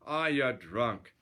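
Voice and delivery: slow, drawn-out brush-off; lightly acted weary fighter; dismissive. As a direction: wave him away with mild scorn. Boxer hero dismisses Swede.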